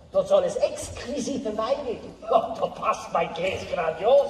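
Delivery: put-on German with heavy Swiss accent. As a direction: play a jovial Swiss cheese seller. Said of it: "aber ich bin ein Schweizer".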